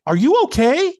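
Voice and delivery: high-pitched mock concern; puzzled concern. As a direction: check on someone who looks odd. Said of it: "looking at me really funny".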